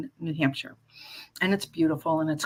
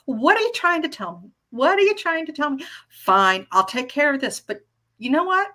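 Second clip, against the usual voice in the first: talking to the universe; 5 semitones higher than usual. Retold or imitated. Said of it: "I'm like".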